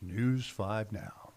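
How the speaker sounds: slow drawn-out station ID; lightly hammed-up announcer read. Shown as a demonstration. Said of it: "I did that in my best announcer voice".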